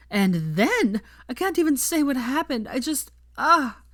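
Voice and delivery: high, loud, breathless rush of excitement; giddy excited gushing. Acted. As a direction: gush like she's still dizzy from the kiss. Veronica gushing about a kiss.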